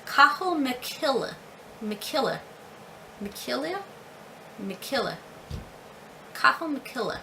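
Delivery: Cathal McKilla with breathed h, "KA-hul muh-KILL-a"; tentative name attempt. Shown as a demonstration. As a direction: test McKilla several times, softly, stress on "kill". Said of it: "Let me know if I said that correct".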